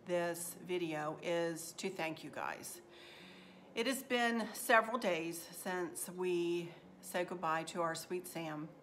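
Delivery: quiet and slowed, voice sinking low near tears; holding back tears. Real, not acted. Thanking viewers after losing their dog, holding back tears. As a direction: say goodbye to the dog softly, fighting tears. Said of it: "I'm gonna try not to cry here".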